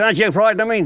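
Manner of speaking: a light devil voice pushing for fear. Acted. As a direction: try to scare him as the devil. Devil questioning the unafraid man.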